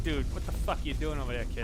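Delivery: mock Boston accent, lightly indignant; retold Boston-accented challenge; Boston friend impression. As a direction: imitate a Boston local challenging you. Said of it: "he's like".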